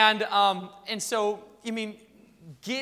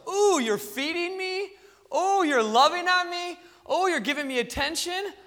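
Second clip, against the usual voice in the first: self-important cat; 8 semitones higher, 4 dB louder than usual. Acted. Cat noting all the attention it gets, self-important. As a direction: coo each favour as it dawns on you. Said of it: "The cat goes".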